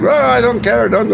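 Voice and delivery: high, mock-angry Russian thug. Angry restaurant man dismissing the narrator, mock rage. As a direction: sneer it like the angry bouncer brushing him off. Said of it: "he's like".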